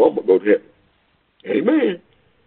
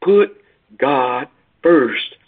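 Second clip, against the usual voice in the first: preacher's refrain with a high Put; high punched Put; 3 semitones higher, much slower than usual. Acted. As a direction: throw the word Put up high.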